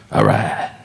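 deep laid-back bro reply; dude voice. Retold or imitated. White guy answering Seagal, low bro voice. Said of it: "he's like".

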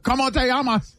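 hammed-up Spanish accent, laughing; mock Spanish accent. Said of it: "Why are you saying it like you're from Osaka?".

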